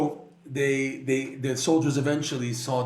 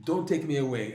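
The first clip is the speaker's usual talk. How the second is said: slow begging. Retold or imitated. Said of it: "So she begged".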